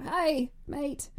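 muddled Irish-Australian accent attempt; bad Irish accent. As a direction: try Irish and miss. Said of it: "you need to work on your Irish accent".

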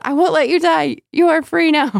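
very high, loud spirit cry; seething shrieking spirit. Acted. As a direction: shriek it like a clinging ghost. Spirit voiced in read passage.

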